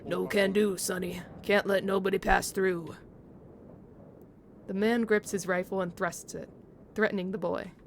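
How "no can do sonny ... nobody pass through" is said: put-on British accent. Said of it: "say it with an accent".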